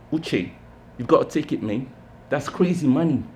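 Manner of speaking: a friend pushing in a hint of London Cockney; Cockney accent. Theo urging Uche over the phone, in light Cockney. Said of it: "That Cockney accent he's been trying so hard to kill".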